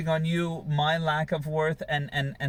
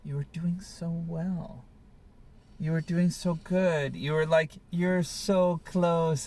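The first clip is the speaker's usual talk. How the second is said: mother's voice; 2 semitones higher, slower than usual. Retold or imitated. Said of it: "what I used to hear a lot from my mother".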